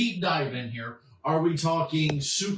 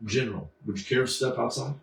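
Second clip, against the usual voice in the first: quick, lower take on the superhero; Superman; 4 semitones lower, faster than usual. Acted. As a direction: rattle off the hero's challenge, lightly voiced. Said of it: "it's not this way".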